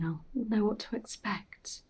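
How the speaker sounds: slow, trailing whisper. Acted. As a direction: whisper it to yourself, resigned. Mother leaving, whispering.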